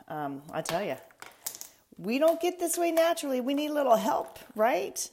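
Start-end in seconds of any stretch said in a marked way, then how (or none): 2.0-5.1 high, loud and quick; bubbly playful aside; excited. Real, not acted. Playful aside about makeup.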